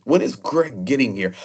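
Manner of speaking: a light British boom, quoting a friend; British booming accent. Retold or imitated. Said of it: "in that British booming accent".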